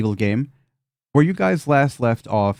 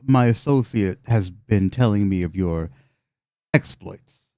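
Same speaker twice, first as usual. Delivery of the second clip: deep voice; 2 semitones lower, slower than usual. Acted. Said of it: "in a deep voice just says".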